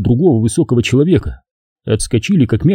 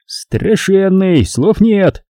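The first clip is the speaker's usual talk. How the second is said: muttered remark; 8 semitones higher, much slower than usual. A narrator's reading. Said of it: "пробормотал сержант".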